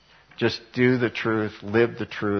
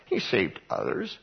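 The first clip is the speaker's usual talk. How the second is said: mocking chief priests; 6 semitones higher than usual. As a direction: sneer it to the crowd. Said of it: "also mocking with the scribes".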